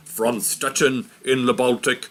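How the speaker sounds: put-on a light, half-hearted British Churchill accent; Churchill accent attempt. Teacher quoting Churchill's speech in a light British accent. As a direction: quote Churchill in a vague, hammed-up British accent. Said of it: "I don't know what kind of accent that was".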